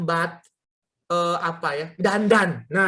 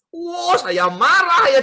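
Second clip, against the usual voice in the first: high, loud, drawn-out outburst; storyteller's exaggerated exasperation; retold anger; 8 semitones higher, 5 dB louder, slower than usual. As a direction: exclaim how mad you were, hammed up. Retells his anger at wife.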